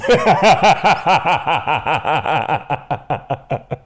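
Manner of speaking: long staccato belly laugh. Real, not acted. Host cracking up at the pins story, long laugh. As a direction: keep the ha's rolling till they fade.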